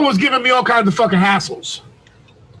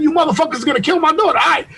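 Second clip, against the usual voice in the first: higher, fast retold outburst; mad yelling; 4 semitones higher, faster than usual. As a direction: throw it back in a half-raised angry voice. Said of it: "I start yelling at this nigga".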